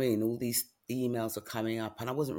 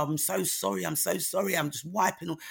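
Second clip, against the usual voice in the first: higher, repeated apologising; flustered apology, retold; 6 semitones higher than usual. Tearful patient apologises to doctor, retold flustered apology. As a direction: apologise helplessly through imagined tears. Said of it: "I was saying to her".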